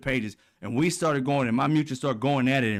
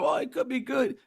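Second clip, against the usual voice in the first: mock cheerful pundit; 11 semitones higher than usual. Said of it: "He was like".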